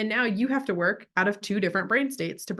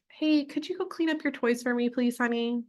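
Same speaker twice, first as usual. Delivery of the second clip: higher, pleading sweet ask; passive parent; 4 semitones higher than usual. Shown as a demonstration. Parent asking child to tidy toys, mildly passive. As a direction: ask it as if it were optional. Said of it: "So passive".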